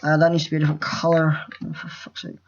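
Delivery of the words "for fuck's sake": muttered under the breath, unvoiced; whispered curse. Real, not acted. Annoyed at the wrong colour.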